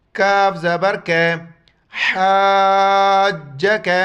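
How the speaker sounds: letters called out loud, حاج drawn long; loud spelling drill. Shown as a demonstration. Teacher to students, loud drawn-out spelling. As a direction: call it out for the class. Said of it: "ہا کو گلے سے ادا کرنا ہے".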